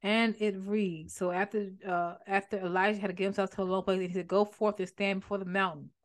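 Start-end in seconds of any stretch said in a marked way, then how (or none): 1.1-5.9 kind of fast. Real, not acted. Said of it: "I said that kind of fast".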